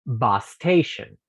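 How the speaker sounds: "bus station" slowly, one shared s sound; slow linked demo. Shown as a demonstration. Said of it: "Y vamos a decir". ("bus station" lento y unido)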